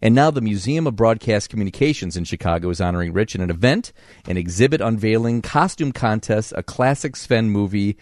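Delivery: upbeat broadcast introduction read; radio host intro. Acted. Radio host introducing his guest to listeners, upbeat read.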